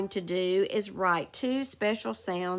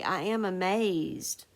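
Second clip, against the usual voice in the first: exclamatory reading; slower than usual. Shown as a demonstration. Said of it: "that would be an exclamatory".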